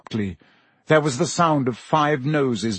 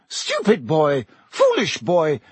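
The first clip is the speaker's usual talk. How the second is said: thick with tears; 5 semitones higher than usual. Acted. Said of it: "said thickly".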